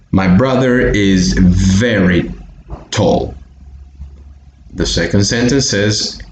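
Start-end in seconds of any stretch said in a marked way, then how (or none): 0.1-3.3 "very" with a held V, pause before "tall"; careful V sound. Shown as a demonstration. Teacher modelling for Bolivian learners, careful V pronunciation. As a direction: model "very" carefully within the sentence. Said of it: "pronounce this word right".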